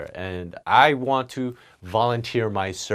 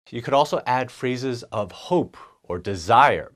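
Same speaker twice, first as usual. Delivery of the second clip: ordinary delivery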